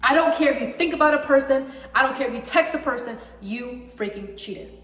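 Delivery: fast, heated rant that drops off; letting real anger spill out; getting riled up. Real, not acted. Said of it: "Sorry, I'm getting riled up".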